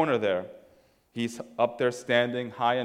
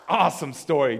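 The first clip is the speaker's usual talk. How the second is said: mock enthusiasm; 3 semitones higher, 5 dB louder than usual. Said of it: "that'd be like".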